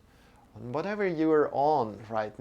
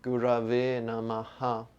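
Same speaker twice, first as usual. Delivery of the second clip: mantra recitation. Shown as a demonstration. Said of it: "whole mantra goes like this".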